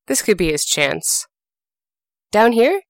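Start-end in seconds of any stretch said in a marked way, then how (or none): 2.3-2.8 higher, slow call up a well; a sly rabbit calling up from below. Acted. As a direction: sing it up out of the well, all innocence. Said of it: "he called up".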